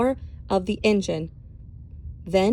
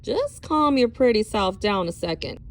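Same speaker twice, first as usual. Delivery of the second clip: slow drawl. Acted. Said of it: "in a slow drawl".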